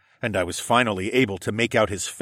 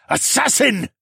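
high, loud hysterical accusation; 5 dB louder than usual. A narrator's reading. Wounded lord accusing the boy, hysterical shout. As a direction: cry it out in hysterics. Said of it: "the Regent Lord's hysterics".

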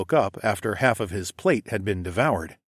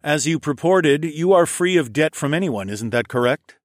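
higher, louder scheming captain; pirate captain voice; 5 semitones higher, 4 dB louder than usual. Acted. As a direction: lean in like a sly pirate. Lerman voiced again.

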